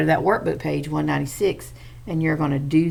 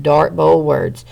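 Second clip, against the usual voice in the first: "Dark, bold words" slow and louder, each word hit; slow emphatic; 6 dB louder, slower than usual. Shown as a demonstration. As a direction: spell it out slowly so kids notice. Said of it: "teacher repeats "Dark, bold words".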